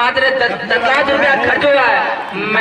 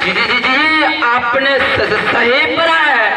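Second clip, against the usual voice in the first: stutter; much slower than usual. Acted. Stammering father in comic skit.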